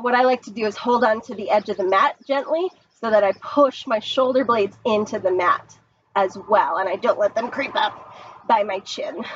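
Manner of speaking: a hint of a cartoon villain. Real, not acted. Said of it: "I made my voice sound like a cartoon villain".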